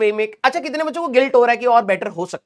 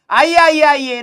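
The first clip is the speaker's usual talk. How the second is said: welcoming the class in with energy; eager welcome; 5 semitones higher, 5 dB louder, slower than usual. Real, not acted. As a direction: call them in, bright and loud. Teacher calling students into class. (जोश से बुलाते हुए)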